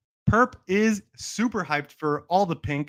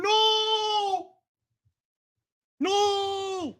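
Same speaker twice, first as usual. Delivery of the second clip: high squeaky voice; slower than usual. Pretend. Streamer mocks chat with high cartoon squeals. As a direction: squeal like a cartoon character in a tantrum.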